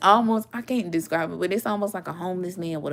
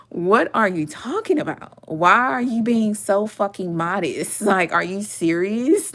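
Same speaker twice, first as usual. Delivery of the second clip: incredulous, laughing through the question; loud, laughing mock scolding; laughing disbelief; 5 dB louder than usual. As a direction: laugh at her for being so modest. Friend scolding a modest woman.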